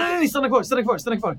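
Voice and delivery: high, loud panicked plea; desperate, rapid-fire shouting; panicked cry. Acted. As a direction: cry out frantically to stop someone leaving. Panicked character stops player leaving.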